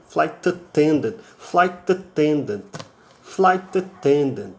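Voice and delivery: "flight attendant" with a closed, reduced first a; slow "flight attendant", mouth almost closed; English "flight attendant". Shown as a demonstration. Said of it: "quase um fechado". ("flight attendant" com A quase fechado)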